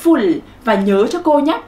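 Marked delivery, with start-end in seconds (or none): 0.0-0.4 "Full" with a short, quick u. Shown as a demonstration. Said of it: "con thấy âm u có ngắn không".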